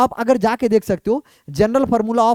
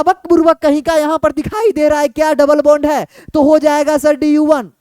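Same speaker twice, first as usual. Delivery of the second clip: mock scolding; 4 semitones higher, 4 dB louder than usual. Teacher scolds a wrong answer.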